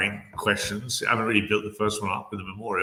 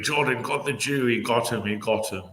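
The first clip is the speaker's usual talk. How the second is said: mock gloating; 3 semitones higher than usual.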